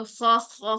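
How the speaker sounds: خا as a scratchy rasp like clearing an itchy throat; raspy throat-clearing kha. Shown as a demonstration. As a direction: scrape it out like an itch in the throat. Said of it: "جو sound نکلتی ہے تو وہ خراش والی".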